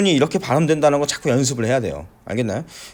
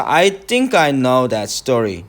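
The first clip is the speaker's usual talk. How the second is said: I think I know that story slowly, think stressed; 2 semitones lower, much slower than usual. Shown as a demonstration. 선생님이 think에 강세를 두고 천천히 읽기. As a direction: lean on think in a slow read. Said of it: "여기에는 강세가 있죠".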